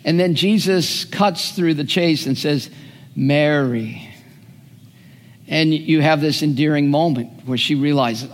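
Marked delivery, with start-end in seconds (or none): 3.2-4.1 tender name. Retold or imitated. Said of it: "uses my name with that inflection".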